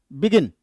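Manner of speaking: "begin" with an unstressed be, falling gin; stress on GIN. Shown as a demonstration. Teacher repeats it for students, second syllable of "begin" stressed. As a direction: say "begin" easing through be onto gin. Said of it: "बी पे unstressed होता है".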